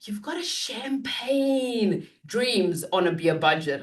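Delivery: a hint of a scolding mother, slow; lightly voiced mother's old saying; imitating mother. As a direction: slowly lecture like a stern mother. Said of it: "the mother would say to me".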